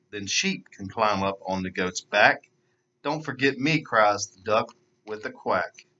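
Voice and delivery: put-on lively storybook narration for kids; animated read-aloud voice; children's story reading. A narrator's reading. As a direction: read it like story time for little ones. Reads picture book to children.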